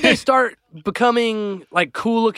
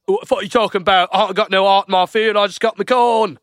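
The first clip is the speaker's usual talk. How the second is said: mock country farmer, rushed and baffled; imitated farmer; faster than usual. Farmer answering art visitors, imitated confusion. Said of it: "And the guy's like".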